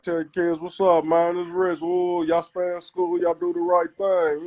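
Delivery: imitating Rich's down north Kansas City accent; a light down north Kansas City lilt, friendly. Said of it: "he talk with a little down north accent".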